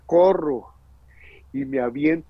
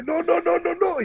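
much higher, frantic repeated no; desperate cry. Retold or imitated. Father calling out to his son at the edge, frantic. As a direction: stop someone from falling. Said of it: "el grito de él, desesperado".

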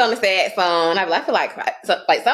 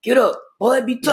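higher, stern parent voice; tough-love parent; 6 semitones higher than usual. Acted. Parents to a boy who fell, stern. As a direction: order a crying son back up. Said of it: "But if a boy do it".

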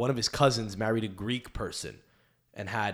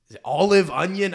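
mock guessing; 7 semitones higher, 9 dB louder than usual. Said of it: "They're like".

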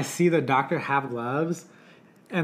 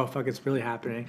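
a low, quiet "oh, fuck" to himself; stunned under his breath; muttering in awe; hushed realization; 3 semitones lower, 7 dB quieter than usual. Retold or imitated. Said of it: "I was like".

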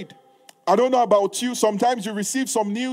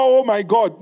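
loud, despairing oh my God; mock wail; 5 dB louder than usual. Preacher mocking tearful intercession, loud wail. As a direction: show the wrong way to pray. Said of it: "Intercession is not".

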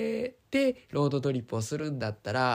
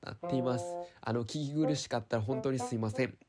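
stuffy blocked-nose voice; talking through a stuffed nose; nasal voice. Real, not acted. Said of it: "鼻声ですみません".

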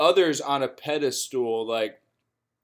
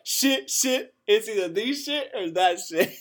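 higher, laughing mock-panic voice; mock quote; 8 semitones higher than usual. Mimicking a buddy stuck choosing, high mock panic. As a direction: ham up a frantic friend torn between options. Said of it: "he's like".

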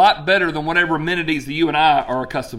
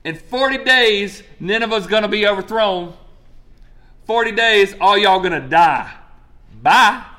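mock doom proclamation; 4 semitones higher, 4 dB louder than usual. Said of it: "started saying this".

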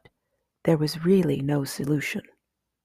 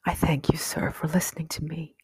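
mildly sad, trailing off softer; a touch of sadness in polite thanks, fading away; understated sadness; 4 dB quieter than usual. A narrator's reading. Mouse politely thanks the owl for listening, mildly sad. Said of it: "and she added sadly".

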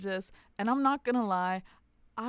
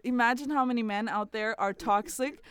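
building from raised voice to a loud finish; impassioned outcry; 4 semitones higher, 8 dB louder than usual. Retold or imitated. Host pleading for unloved toxic men, impassioned outcry. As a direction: drive up to a big shout on the last words. Impassioned plea retelling her reaction.

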